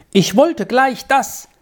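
put-on high, slow, childish grumble; sulky protest. A narrator's reading. Squirrel starts grumbling back at Malva, sulky protest. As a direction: begin a defiant wish, drawn out.

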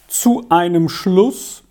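slow, mildly plaintive question. A narrator's reading. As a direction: let it sound small and forlorn. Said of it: "erwiderte sie kläglich". (kläglich und langsam gefragt)

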